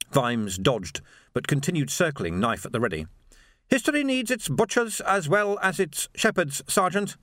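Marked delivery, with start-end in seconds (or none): 3.7-7.2 higher, precise and icy; a calm fanatic lecturing; Swing's cold voice. A narrator's reading. Swing's voice held.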